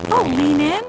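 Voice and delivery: put-on innocent girl. A narrator's reading. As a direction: feign innocence with a lilt.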